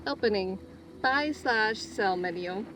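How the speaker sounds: slow mechanical menu announcement; robot voice. Pretend. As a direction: read it like a vending machine. Announcing shop menu like machine.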